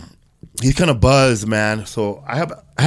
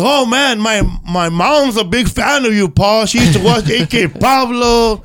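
put-on high, excited young woman voice; young stripper voice; 8 semitones higher, slower than usual. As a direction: gush like a starstruck young fan. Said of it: "She goes".

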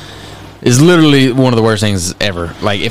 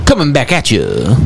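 put-on old radio voice; 3 semitones higher, slower than usual. Shown as a demonstration. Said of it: "the old radio voice".

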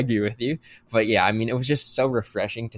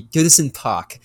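put-on Goodison Park said in a slipped-in French accent, a bit higher and louder; 4 semitones higher, 4 dB louder, slower than usual. Thanking his co-host for the name, then a French-accented Goodison Park. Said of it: "a French accent or something".

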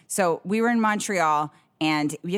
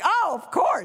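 mock understanding; 11 semitones higher, slower than usual. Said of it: "You'd think they'd be like".

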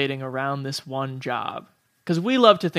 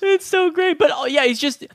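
delighted; 13 semitones higher, 6 dB louder than usual. Real, not acted. Delighted reaction to quote.

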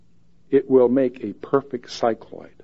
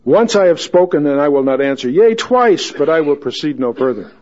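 Jewish accent; 3 semitones higher, 5 dB louder than usual. Shown as a demonstration. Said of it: "You gotta do that with a Jewish accent".

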